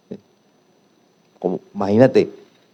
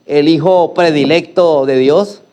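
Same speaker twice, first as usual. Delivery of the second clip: mocking; slower than usual. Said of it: "se burlan diciendo".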